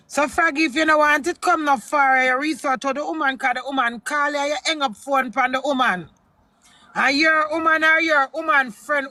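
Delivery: loud, heated rant at a man who hung up; angry public warning. Real, not acted. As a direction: call him out loudly and furiously.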